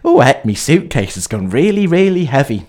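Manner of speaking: a light Yorkshire grandma, puzzled; lightly voiced Yorkshire granny fretting about the heavy case. Grandma at airport security, mild Yorkshire accent puzzled. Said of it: "she's from Yorkshire".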